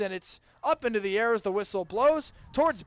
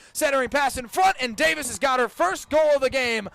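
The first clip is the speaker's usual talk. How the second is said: rising, louder shout as the goal goes in; louder, higher play-by-play shout; excited goal call; 3 semitones higher, 4 dB louder than usual. Real, not acted. Goal scored in live call.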